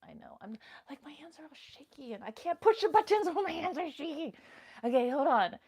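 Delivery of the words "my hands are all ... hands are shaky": fast, higher, laughing fluster. Real, not acted. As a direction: laugh through the nervous fumbling. Flustered, laughs at own shaky hands.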